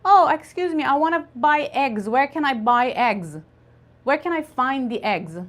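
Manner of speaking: a hint of a shop customer; customer asking. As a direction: play a customer asking for eggs. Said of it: "when you go to a shop and say".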